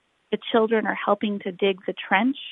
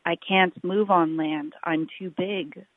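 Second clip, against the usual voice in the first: whale's moan; 3 semitones lower than usual. Acted. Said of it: "moaned the whale".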